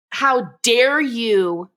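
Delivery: very slow, each word stretched in mock outrage; drawn-out indignation. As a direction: lean into every word of "How dare you" like an offended wife. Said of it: "And she's just like".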